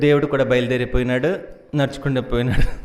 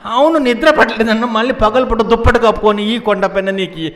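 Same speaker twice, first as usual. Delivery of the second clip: high, loud challenge; acted motherly scolding; 7 semitones higher, 5 dB louder than usual. Mother questioning son about daytime sleep under a blanket, loud scolding. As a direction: imitate a mother briskly querying an excuse.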